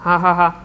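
put-on a terrible old woman's laughter; crazed mother's cackle; dreadful laugh. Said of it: "зайшлася реготом".

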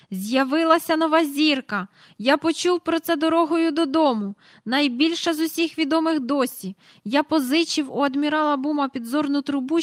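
high, loud, thrilled; excited announcement. A narrator's reading. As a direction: rush out the news breathlessly. Mr Banks announces the star. (захоплено оголошує нову зірку)

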